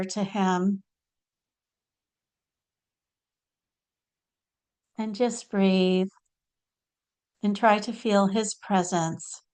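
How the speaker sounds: unhurried meditation lead-in with long pauses; guided meditation. Real, not acted. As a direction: gently guide them inward, phrase by phrase. Leads listeners into meditation.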